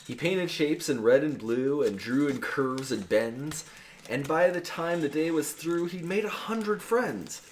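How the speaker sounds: rhythmic verse read with a laugh at the end; sing-song rhyming delivery; poem recitation. Acted. Reading the anti-vax poem to the hosts, rhythmic verse. Reads the Timmy poem aloud.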